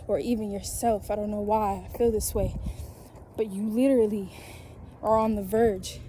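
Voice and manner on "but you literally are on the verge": fiery preaching. Real, not acted. Preaching at full force to viewers.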